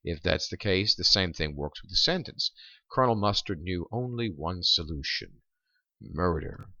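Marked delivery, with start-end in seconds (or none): 2.9-6.7 pause, then land murder last; emphasis at the end. Shown as a demonstration. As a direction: hold back, then drop murder as the payoff. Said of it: "there you see murder being highly emphasized".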